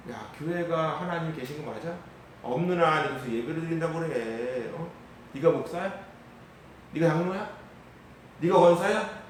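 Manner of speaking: mild mock sneer that grows pushier; lightly imitated scoffer; sarcastic jeering. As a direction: needle the churchgoers sarcastically. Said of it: "매일 비꼬는 모습들".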